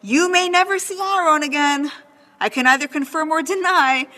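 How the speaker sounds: lightly hammed-up proclamation from on high; mock thundering God. Teacher voicing an imagined God to the class, mock booming. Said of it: "God didn't thunder out a voice and say".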